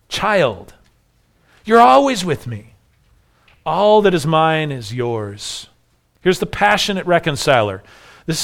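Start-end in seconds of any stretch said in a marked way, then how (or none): 0.1-5.7 affectionate plea. Retold or imitated. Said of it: "we see an affectionate plea".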